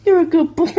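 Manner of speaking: high, loud puppy praise; squeaky praising a dog. Real, not acted.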